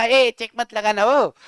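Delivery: drawn-out warning call, imitated; mock warning. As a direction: mimic someone forbidding it, stretching the words. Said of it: "पहले तो आपने बोला". (नकली चेतावनी, खींचकर)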